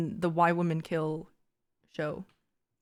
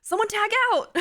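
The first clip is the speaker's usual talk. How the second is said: left-out third wheel; 13 semitones higher than usual. Pretend. Left out in a threesome, asking for a turn, plaintive. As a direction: meekly ask to be let in.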